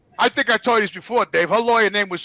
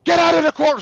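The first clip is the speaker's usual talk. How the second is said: retold judge shouting; 6 semitones higher than usual. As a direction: throw them out of the courtroom. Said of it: "And she goes".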